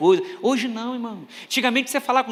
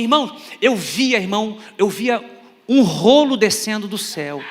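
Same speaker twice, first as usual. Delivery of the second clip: slow, lightly voiced vision-telling; testifying church brother; 3 dB louder, slower than usual. Church brother at microphone recounting a vision, slowly solemn. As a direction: draw it out like a mock prophecy. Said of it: "pegou o microfone e falou assim".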